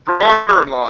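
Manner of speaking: brother-in-law in a local East Coast way; East Coast pronunciation. Shown as a demonstration. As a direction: say "brother-in-law" like a Newfoundlander, th softened toward d. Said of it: "That's how we each said right here".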